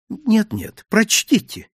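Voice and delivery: don't take no for an answer; insistent. A narrator's reading. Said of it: "настойчиво произнесла Софи".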